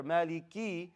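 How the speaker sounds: "Maliki" with a long final "ee"; clear kasra. Shown as a demonstration. Teacher shows where the kasra belongs, clearly sounded. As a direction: push out the last "ee" in "Maliki". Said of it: "is not the kasra there".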